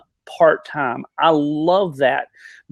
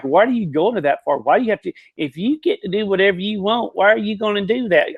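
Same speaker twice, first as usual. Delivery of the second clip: lightly mocking country accent, pitched higher; 5 semitones higher than usual. Country folk questioning why you bother, mock country accent. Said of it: "that little country accent".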